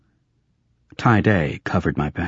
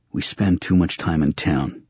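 grumbling. Acted. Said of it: "I grumbled".

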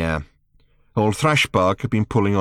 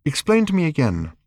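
put-on 1 teen girl voice; 6 semitones higher than usual. A narrator's reading. Random voiced by narrator.

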